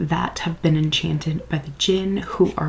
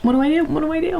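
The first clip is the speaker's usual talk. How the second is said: pet's voice; 9 semitones higher, much faster than usual. Retold or imitated. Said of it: "she was like".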